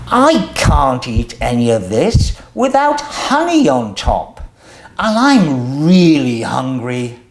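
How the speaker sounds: lively storybook reading with voiced characters; reading to children. A narrator's reading. Host reading a picture book to young viewers, lively storytelling. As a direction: read it out to little ones, bright and animated.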